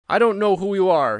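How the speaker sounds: blurting it out in alarm; cried out. A narrator's reading. Startled old soldier to Holmes, crying out loud. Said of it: "he cried".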